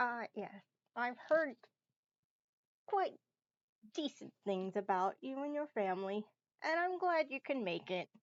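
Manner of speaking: strained, forced voice. Voicing a host greeting a guest at a party: strained voice. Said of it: "his voice and his expression seems a bit str-, strained".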